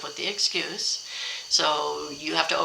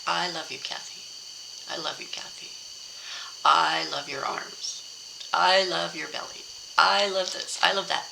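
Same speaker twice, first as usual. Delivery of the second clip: tender affirmation. Shown as a demonstration.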